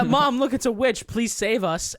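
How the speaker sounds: high, loud mock child voice; scared kids. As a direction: play the frightened boys begging mom. Kids voiced in retold scene.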